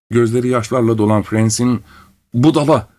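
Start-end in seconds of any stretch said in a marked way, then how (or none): 2.3-2.9 a sharp tearful shout, louder. A narrator's reading. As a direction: yell the insult at him. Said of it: "diye bağırdı".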